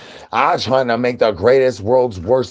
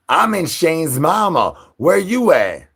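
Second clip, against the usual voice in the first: high calling voice; 7 semitones higher, 3 dB louder than usual. Acted.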